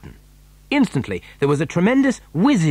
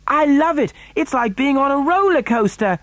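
put-on high, thrilled child's voice; excited shout; 12 semitones higher than usual. A narrator's reading. Charlie in the racing lift, shouting with excitement. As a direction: call out high with delight. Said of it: "Charlie shouted".

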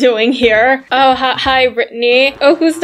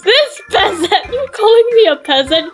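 mock indignation; 6 semitones higher than usual. Acted quarrel over being called peasant.

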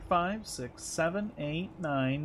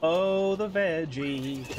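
slow, stretched-out silly voice; drawn-out mock voice; slower than usual. Player repeating the veggie line to amuse herself, slow mock voice. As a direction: drag it out in a put-on silly tone.

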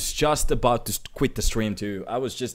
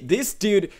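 loud, raised hype with drawn-out words; excited hype; 4 semitones higher, 7 dB louder than usual. Real, not acted. Streamer announcing a huge donation to chat, excited hype. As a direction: punch up the amount for the crowd.

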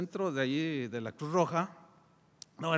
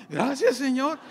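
loud thanks; 8 semitones higher, 5 dB louder than usual. Retold or imitated. Agradece con fuerza, mirando el precipicio.

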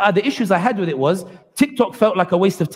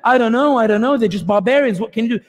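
imitating a dismissive Israeli. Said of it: "And I'll try to imitate it here".

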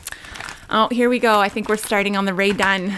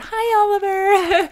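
pet voice; 10 semitones higher, slower than usual. Real, not acted. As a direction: coo at the cat. Greeting the friend's cat on camera.

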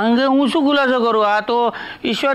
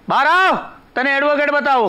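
higher-pitched summons; raised, brisk summons; calling someone out; 3 semitones higher than usual. Acted. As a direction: call into the next room. Calls her out to see advocate.

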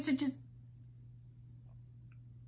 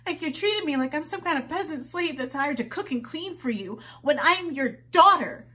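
rising indignation; 4 semitones higher than usual. Acted. Complaint to mother builds.

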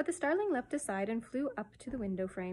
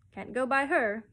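starling; 3 semitones higher, 7 dB louder than usual. A narrator's reading.

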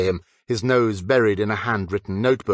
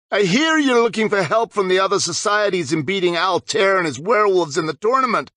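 lightly voiced, blunt boy; no preamble, straight to it; vampire captain Harding; 8 semitones higher, 3 dB louder than usual. A narrator's reading. Harding intercepting James with no preamble.

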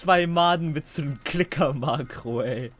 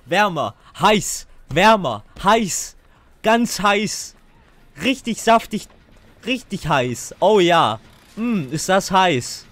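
playful hot-cold calling; 6 dB louder, slower than usual. Real, not acted. Hot-cold guiding teammate to generator.

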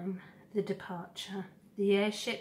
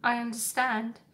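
sniffling; 4 semitones higher, 4 dB louder than usual. Acted. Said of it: "sniffled the goose".

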